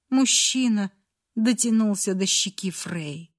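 usual speaking voice

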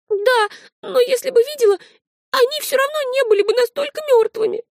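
put-on a small girl insisting in agitation; high girl's voice, insistent; agitated little girl.

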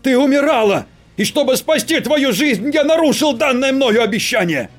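loud desperate male shout. Acted. Husband shouting to reach his wife, loud. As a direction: yell to get through to her. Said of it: "перешёл на крик".

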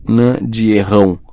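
slow, thick "Nã de errão"; bloodied-mouth speech. A narrator's reading. Ron protests through injured mouth, garbled "Nã de errão". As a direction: blur the consonants in "Nã de errão". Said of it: "sua boca estava ensanguentada".

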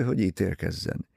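usual speaking voice

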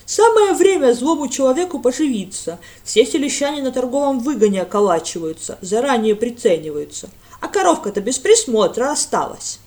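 loud, sly scheming; sly greedy lad. A narrator's reading. Lad hints at theft, loud and sly. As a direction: relish the chance to steal. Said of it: "с хищным блеском в глазах".

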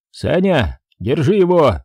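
cursing. Acted. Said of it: "ругнулся док".

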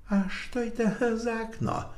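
a quiet, discreet question; quietly. Acted. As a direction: ask it under your breath. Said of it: "и негромко спросил".

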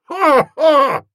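high, loud hearty guffaw; aunt's loud fake guffaw; another guffaw. A narrator's reading. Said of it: "Aunt Dahlia came across with another".

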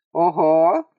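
short scoffing "Ого"; mocking exclamation. A narrator's reading. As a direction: exclaim it with a smirk. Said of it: "воскликнул тот с коротким смешком".

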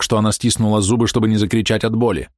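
ordinary delivery

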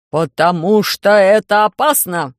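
громкий дружный ответ, громче и медленно; решительно возрази; хором, с нажимом. Acted. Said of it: "в один голос ответили". (отец с Громозекой в один голос отказывают Алисе)

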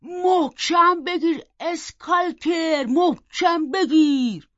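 loud, high, drawn-out command to a dog; shouting. A narrator's reading. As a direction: holler the order with long stretched words. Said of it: "اومد و داد زد". (فریاد کشیدهٔ فرمان به سگ)

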